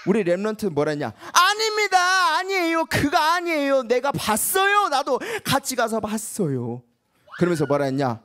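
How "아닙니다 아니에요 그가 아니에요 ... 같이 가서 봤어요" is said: slow, high, emphatic; earnest protest. Acted. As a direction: insist with conviction. Joshua and Caleb protest. (간절하게 강조하며)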